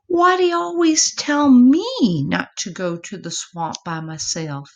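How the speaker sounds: high, eager little possum calling to his mama; young possum voice. Acted. Epossumandus questions Mama.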